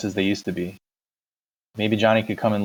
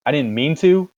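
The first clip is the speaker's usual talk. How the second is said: higher, louder incredulous shout; mocking shout; 6 semitones higher, 5 dB louder than usual. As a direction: throw his words back at him. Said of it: "Derry shouted".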